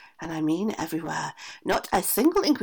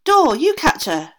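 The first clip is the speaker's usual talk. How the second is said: slow, loud shouted command; shouting aunt; 7 semitones higher, 11 dB louder than usual. A narrator's reading. Aunt shouting at the door, loud slow order. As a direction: shout each word at the door. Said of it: "shouted the aunt".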